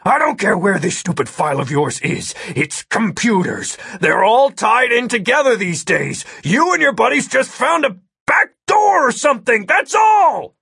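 angry rant. A narrator's reading. Agent dismisses the hacker's claim, angry rant building to shouting.

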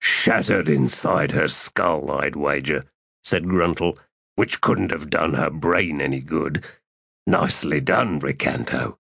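deadpan gruff voice; low dry voice. Acted. Gruntle's dry remark.

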